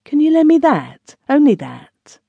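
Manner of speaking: high-pitched anxious plea; anguished, hesitating. A narrator's reading. Asking a friend to lend jewels, anguished. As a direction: plead high, with a touch of anguish. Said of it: "hesitating, filled with anguish".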